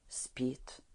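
hushed whisper. A narrator's reading. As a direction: whisper so as not to wake her. Girl just fell asleep.

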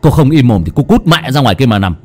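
enraged husband telling his wife to shut up; furious. Acted. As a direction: lash out at her in bitter rage. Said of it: "Kha bắt đầu cáu bẩn".

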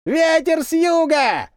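high, slow call from far off; the lone voice calling the signal a second time; distant cry again. A narrator's reading. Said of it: "снова раздался тот крик".

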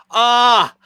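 sharp high yelp of pain; pained cry. Acted. Hurt pig cries out in pain, high yelp. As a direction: cry out as if stung.

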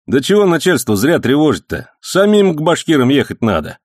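put-on high, loud excited old man's story; heated old man. A narrator's reading. Old man heatedly telling the policeman about the attack. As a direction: rattle it off fired up.

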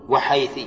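وحيث closing on a short i; final kasra on حيث. Shown as a demonstration. Teacher lists the dialect forms of the word, ending in i. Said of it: "بتثليث الثاء".

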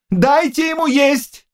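high, slow commanding call; shout. A narrator's reading. King orders food for the starving knight, shouting. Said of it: "крикнул король".

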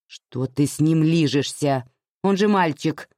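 firm disapproving rebuke, a bit slow; stern. Acted. Mother scolds Anya for kissing her son, stern. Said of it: "строго сказала мать".

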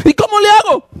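high-pitched acted question; bewildered beggar. Beggar asking where to enter, high mock-helpless voice. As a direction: ask it high, playing the clueless one. Acts beggar answering in dialogue.

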